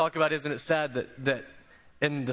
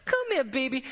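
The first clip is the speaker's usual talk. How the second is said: put-on high, drawn-out Charlestonian drawl of an old lady; 7 semitones higher than usual. Nurse calls the pastor over: high Charlestonian drawl. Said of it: "has this thick Charlestonian drawl".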